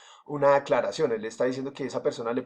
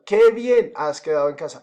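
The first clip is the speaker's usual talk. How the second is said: exclamation read; 3 semitones higher, 9 dB louder than usual. Shown as a demonstration. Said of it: "con tilde es para interrogativos y exclamativos".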